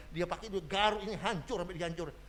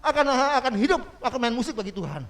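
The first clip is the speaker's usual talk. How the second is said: high, loud retold declaration; shouting; 9 semitones higher, 5 dB louder, faster than usual. Pianist shouting he will live, high and loud. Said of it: "sampai dia teriak-teriak".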